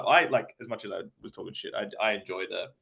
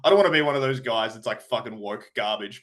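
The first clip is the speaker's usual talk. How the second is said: normal talking voice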